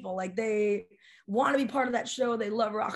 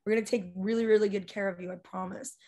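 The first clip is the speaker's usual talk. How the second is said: mock soothing reassurance; 2 semitones lower than usual. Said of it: "I'm like".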